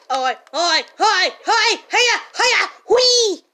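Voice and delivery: loud, rising sing-song calls; playful calling out. Acted.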